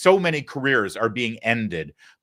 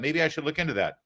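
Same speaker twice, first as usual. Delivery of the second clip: lightly imitating viewer; 5 semitones higher, 3 dB quieter, faster than usual. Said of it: "And you've been thinking".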